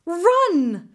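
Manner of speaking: loud, high, urgent command; shout. A narrator's reading. Jalosh orders his horse to flee the diff, shouting. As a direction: shout it out to get moving at once. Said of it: "Jalosh shouted to Mingo".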